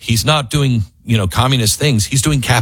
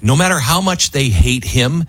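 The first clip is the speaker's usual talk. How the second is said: ordinary talk, nothing marked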